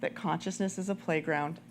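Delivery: lightly voiced mom, firm and gentle. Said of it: "I'm gonna put on my mom voice".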